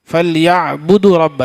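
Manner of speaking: فَلْيَعْبُدُوا رَبَّ gabbled fast; wrong rushed reading. Shown as a demonstration. Teacher showing students a rushed wrong reading. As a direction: rattle off فَلْيَعْبُدُوا رَبَّ much too fast. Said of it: "ایسے نہیں بولیں گے".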